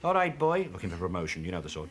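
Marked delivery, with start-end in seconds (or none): 0.0-0.7 Welsh copper. Retold or imitated. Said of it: "Jones the Speed".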